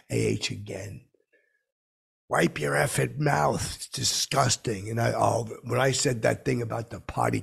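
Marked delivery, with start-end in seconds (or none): 2.3-4.9 mock-harsh scolding, higher and slow. Retelling the wife scolding him at the restaurant, mildly harsh. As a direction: imitate a disgusted telling-off, drawn out. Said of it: "she was kinda harsh".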